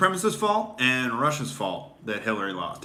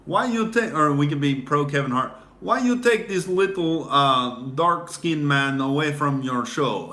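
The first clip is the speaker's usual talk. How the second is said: mock whiny complaint; 3 semitones higher, 4 dB louder than usual. Mocking complaint about Kevin Hart.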